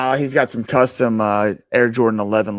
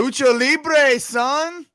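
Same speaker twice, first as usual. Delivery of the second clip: hype shout; 12 semitones higher, 4 dB louder, much slower than usual. Real, not acted. Hyping a top-rope move.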